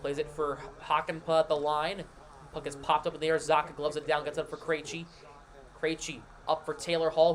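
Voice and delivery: brisk hockey play-by-play call; live play-by-play. Acted. Streamer sets up the Bruins game for chat in live play-by-play. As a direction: call the action as it happens.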